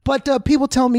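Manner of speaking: ordinary talk, nothing marked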